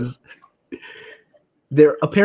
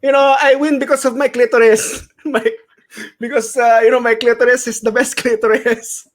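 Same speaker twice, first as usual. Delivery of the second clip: high-pitched, louder comic impression of a boxer; Manny Pacquiao; 8 semitones higher, 4 dB louder than usual. Boxer answering a post-interview question about his secret, high comic impression. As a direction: play a boxer crediting his win, pitched well up, laughing a little. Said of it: "Manny, what's your secret?".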